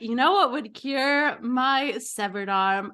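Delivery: slow, swooping mock ad pitch; overselling a product. Injured contestant pitching soda to camera, overselling. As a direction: sell it with drawn-out words, breaking into a laugh. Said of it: "she needs to really sell it".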